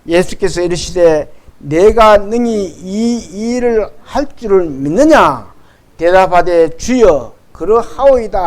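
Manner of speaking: slow, measured Bible reading aloud; scripture reading. Acted. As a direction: lead the congregation evenly through the verses. 이십칠 절부터 시작.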